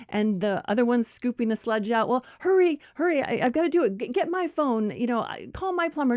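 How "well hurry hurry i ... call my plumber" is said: high, urgent stammered orders; harried friend. Acted. Friend scooping sludge tells the other to hurry, harried. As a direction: hustle her along in a mock panic.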